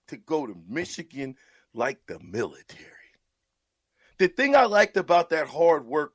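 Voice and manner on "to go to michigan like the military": whisper. Real, not acted. Whispered aside after cadence.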